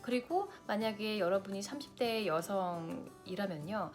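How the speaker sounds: usual speaking voice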